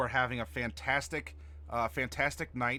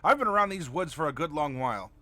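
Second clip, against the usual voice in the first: stern grandma; 5 semitones higher, 4 dB louder than usual. Acted. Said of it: "She's the stern grandma".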